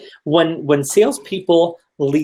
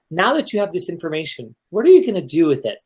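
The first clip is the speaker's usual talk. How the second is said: eager salesperson; 5 semitones higher than usual. Retold or imitated. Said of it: "instead it's".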